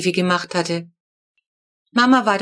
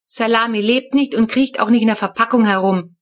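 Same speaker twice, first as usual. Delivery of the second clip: impatient; 2 semitones higher, 4 dB louder than usual. Acted. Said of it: "entgegnete Papa ungeduldig".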